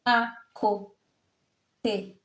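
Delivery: very slow "À côté" in three separate syllables; teacher's drawn-out model of "À côté". Shown as a demonstration. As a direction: sound out "À côté" with long gaps, ending on é. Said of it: "So we have the accent".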